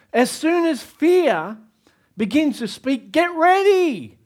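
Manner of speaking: high, loud, slow and emphatic; preaching at full force. Real, not acted. Pastor repeating the promise to the congregation, loud and high. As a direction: drive it home to the crowd. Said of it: "Did you hear that?".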